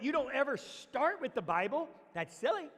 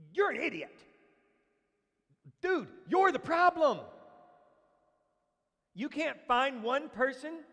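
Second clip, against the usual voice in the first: blunt friend; 3 semitones higher, 4 dB louder than usual. Retold or imitated. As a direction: tell him straight, like a friend who cares. Friend confronting the man.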